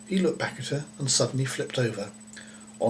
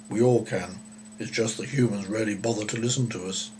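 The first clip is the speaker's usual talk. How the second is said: friendly cow voice. Acted. Talking cow speaks.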